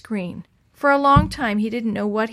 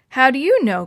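loud, higher, irritated retort; snapping back; 4 semitones higher, 8 dB louder than usual. A narrator's reading. Chris challenging a doubting classmate, snapping back loudly. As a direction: snap it back as a sharp challenge. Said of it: "Chris snapped back".

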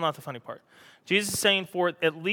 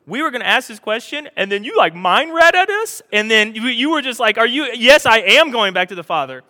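louder, higher, gushing disciples; excited disciples; 6 semitones higher, 11 dB louder than usual. Retold or imitated. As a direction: gush over the mind reading. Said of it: "they're saying".

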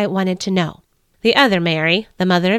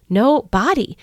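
"No body" slow and rising, two clear words; stress on no body; 3 semitones higher than usual. Shown as a demonstration. Mary repeating the grim pun, "No body" rising. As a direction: lift "No" as the point lands. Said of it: "I mean, there was no body there".

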